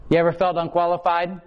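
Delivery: booming question to the crowd; a loud, pointed question to the pews; loud challenge. Real, not acted. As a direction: put the question to them loud. Preacher challenges congregation loudly.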